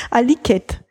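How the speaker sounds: Aliket, Tequila said in reverse; Aliket, the word Tequila reversed; spoken backwards. Shown as a demonstration.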